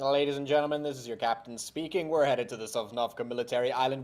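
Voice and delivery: playful airline captain announcement; mock pilot addressing passengers; over the intercom. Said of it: "give it over to our captain, our pilots".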